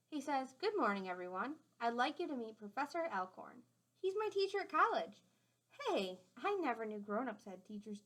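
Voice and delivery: gentle storybook read-aloud; clear, friendly storytime voice; reading to children. A narrator's reading. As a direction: read it out to the class like a picture book. Reading a picture book aloud.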